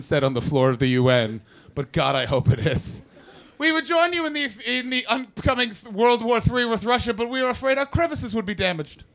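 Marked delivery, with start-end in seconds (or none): 3.6-9.0 mock camp diplomat. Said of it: "That's the representative from Camp Island".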